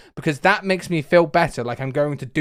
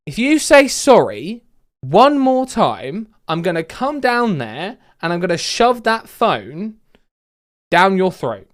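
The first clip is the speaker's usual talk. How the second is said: slow, emphatic threat, raised in pitch and volume; slow angry threat; 3 semitones higher, 3 dB louder, slower than usual. Retold or imitated. Angry customer threatening the call handler over one more sorry, slow retold threat. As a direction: spell the threat out slowly, phrase by phrase. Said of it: "His literal words was".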